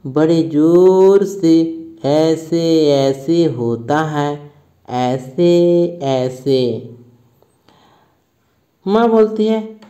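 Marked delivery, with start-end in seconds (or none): 0.1-6.6 slow, near-tears whimper; a sick child close to crying; mildly tearful, slow complaint. Acted. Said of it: "रुआँसा सा बोलता है".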